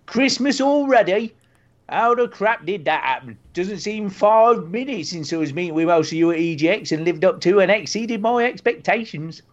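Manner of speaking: reading the email in a mock rural accent; a hint of a West Country burr; lightly voiced farmer accent reading an email; put-on accent. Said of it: "Is the accent okay?".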